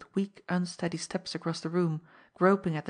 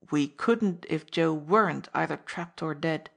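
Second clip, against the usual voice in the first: sharp cutting-in; 3 dB louder than usual. Acted. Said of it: "Laroque broke in sharply".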